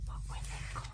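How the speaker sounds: very soft whisper to herself; whispered self-questioning. Real, not acted. Vlogger trying to recall the pattern's name, whispered to herself. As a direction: whisper it, searching your memory.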